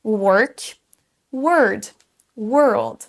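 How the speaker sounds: work, word, world with one identical er vowel; careful, separated work, word, world; same vowel throughout. Shown as a demonstration. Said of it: "c'est exactement la même".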